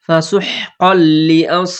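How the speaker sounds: slow ফাসুহ কল with a doubled লাম; slow recitation. Shown as a demonstration. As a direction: bounce off the ক into ল in কল. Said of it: "কফের সাথে লামের". (কল ধাক্কা দিয়ে পড়া)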